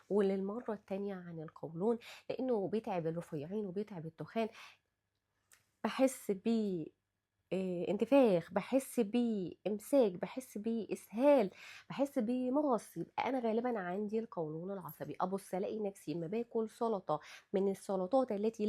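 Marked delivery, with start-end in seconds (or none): 5.8-13.0 complaining patient. Retold or imitated. Patient describing symptoms.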